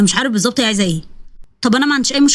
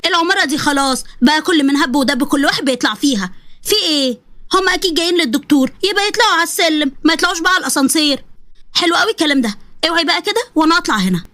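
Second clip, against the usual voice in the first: lightly raised, haughty lady's voice; snobbish woman; 4 semitones higher than usual. Acted. Suzy snubbing the women at the elevator, haughty and higher. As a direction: look down your nose at them.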